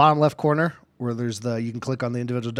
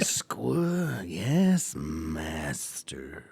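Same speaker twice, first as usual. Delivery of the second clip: a hint of a fawning servant; bow and scrape, trailing off; servile minion; 8 semitones lower, 7 dB quieter, much slower than usual.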